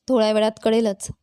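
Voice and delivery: mildly calm, even voice; calm reply. A narrator's reading. Bharti answers the family's questioning, calmly. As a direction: say it with understated calm. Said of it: "Bharti मात्र शांतपणे म्हणाली".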